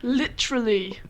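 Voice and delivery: "literally" tried out as "LIT-truly"; clipped-syllable "literally". Shown as a demonstration. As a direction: sound out "literally" with the middle syllable squeezed. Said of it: "like British?".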